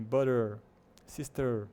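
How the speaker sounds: BUTTER and SISTER with held American "er" endings; r-colored schwa. Shown as a demonstration. Teacher telling learners to take care, prolonged final R. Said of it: "é um R mais prolongado".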